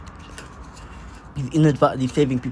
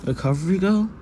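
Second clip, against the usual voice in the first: high, rising, wide-eyed question; acted surprise; 4 semitones higher than usual. Boy waking to see the nurse heroine, high acted wonder. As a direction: lift it into an astonished question, play-acted. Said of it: "That could be like".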